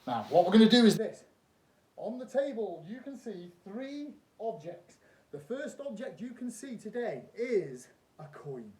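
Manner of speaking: loud, high showman patter; kids party magician. Acted. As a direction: play it big for the crowd. Performs trick as stage magician.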